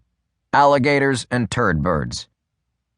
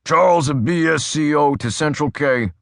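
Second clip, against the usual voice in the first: crisp cop radio call, a bit higher; brisk radio call; 5 semitones higher than usual. A narrator's reading. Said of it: "spoke briskly".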